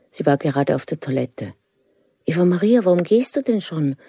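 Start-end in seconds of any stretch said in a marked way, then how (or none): 2.3-4.0 a surprised call after her niece; surprised question. Acted. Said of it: "fragt sie überrascht". (überrascht, mit höherer Stimme)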